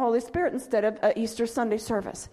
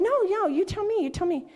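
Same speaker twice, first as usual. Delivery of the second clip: nice way; 7 semitones higher than usual. Retold or imitated. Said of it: "I said it in a nice way".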